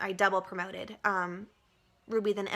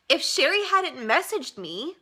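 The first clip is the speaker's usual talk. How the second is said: slow, higher voice breaking with tears; tearful; 5 semitones higher than usual. Real, not acted. Thanking her friend Sherry, crying. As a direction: say it through real tears. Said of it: "why am I crying?".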